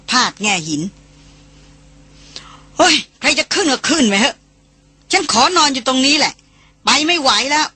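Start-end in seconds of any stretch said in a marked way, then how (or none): 1.7-7.7 higher, whiny woman refusing to climb; sulky whining. A narrator's reading. Exhausted woman sulks at the group, whining higher. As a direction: whine it out like a sulky tired woman. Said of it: "หล่อนเริ่มพานงอแง".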